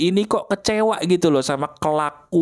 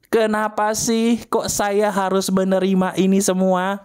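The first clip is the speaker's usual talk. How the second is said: demo scream line; 4 semitones higher, slower than usual. Shown as a demonstration.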